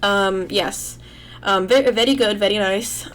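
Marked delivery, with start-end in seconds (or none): 1.4-3.1 lightly put-on Indian accent; a faint mock Indian lilt on the praise; pseudo Indian accent. Reading viewer questions aloud, a slight mock Indian accent. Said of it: "I just put on, like, a pseudo Indian accent there".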